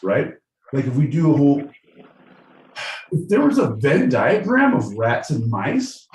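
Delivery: lightly voiced rambling dude, pitch often rising; California dude contestant. Contestant offers hosts extermination, then apologizes, eager dude voice.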